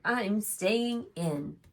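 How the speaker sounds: slow bear, digging in; stubborn bear. Acted. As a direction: plant your feet and refuse slowly. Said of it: "Bear shuddered".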